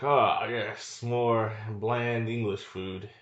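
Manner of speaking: slow, lightly put-on English accent; mock British. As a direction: draw it out as a mock British diner. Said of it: "he's now in England".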